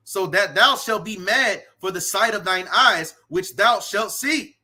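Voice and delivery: emphatic, rhythmic preacher's reading; scripture declamation. Acted. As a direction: proclaim the curse with punched stresses. Reads scripture aloud forcefully.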